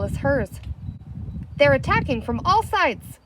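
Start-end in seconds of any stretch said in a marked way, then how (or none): 1.6-3.2 higher, louder panicked chief; frightened cry. A narrator's reading. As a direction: cry out in alarm. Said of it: "the chief cried".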